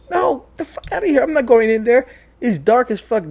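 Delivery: high-pitched, mock-alarmed protest; retold refusal. Storyteller replaying his refusal to enter, high-pitched protest. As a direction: balk loudly in a high voice, replaying it.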